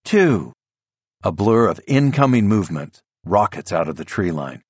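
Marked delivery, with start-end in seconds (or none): 0.0-0.5 urgent announcer countdown. A narrator's reading. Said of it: "An urgent female voice blares".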